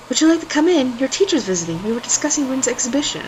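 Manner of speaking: smoker voice. Acted. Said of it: "now I gotta do the smoker voice".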